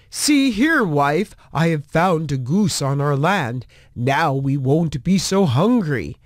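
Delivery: a lightly voiced hopeful farmer. A narrator's reading. Farmer showing the goose to his wife, lightly voiced. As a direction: farmer pleased with his find.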